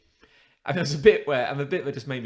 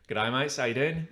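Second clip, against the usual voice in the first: lightly imitated Australian greeting; Australian accent; 3 semitones higher than usual. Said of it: "the most Australian man".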